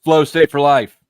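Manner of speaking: loud triumphant gloating, laughing it up. Real, not acted. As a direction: crow over the win. Gloating after opponent leaves.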